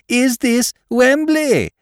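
slow, loud, every word spelled out; slow loud enunciation. Acted. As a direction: speak slowly to someone hard of hearing. Final slow shout to deaf man.

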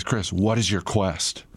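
slow, grave, like a bridgekeeper; solemn quest voice. Retold or imitated. Food truck cook questions the customer, slow and solemn. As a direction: hail the knight with mock gravity. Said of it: "So again, he says".

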